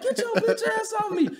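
high shouted telling off; loud retold yell. Yelling at the coworker again, high and loud. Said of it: "I said this shit loud".

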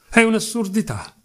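high-pitched frantic protest, volume held in; frantic shriek. A narrator's reading. Accused Mitya cuts in on the prosecutor, frantic shriek. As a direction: blurt it out in mild frenzy. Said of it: "strillò frenetico".

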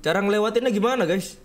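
exasperated shout. Real, not acted. Repeating question louder.

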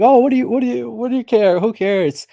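high, loud, scoffing "who cares"; dismissive mocking voice. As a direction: brush it off with a sneer. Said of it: "They're like".

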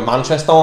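"Manchester" ending in an open "oh" sound; altered ending. Shown as a demonstration. Host demonstrating to the guest, "Manchester" ending in "oh". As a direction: end "Manchester" on a round "oh". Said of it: "instead end it in "oh".

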